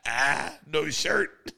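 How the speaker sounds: very high, strangled giggly squeal; Norm's squealing delight. Retold or imitated. Imitating Norm laughing at a shirtless comic, high squeal. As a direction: squeal it like you can't hold the laughter in. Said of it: "And he goes".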